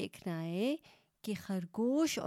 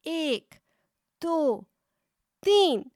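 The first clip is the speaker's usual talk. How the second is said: calling out the count; 7 semitones higher, 8 dB louder, slower than usual. A narrator's reading. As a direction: count building from high to a loud shout. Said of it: "چوہے نے آواز لگائی".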